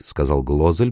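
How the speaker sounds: usual speaking voice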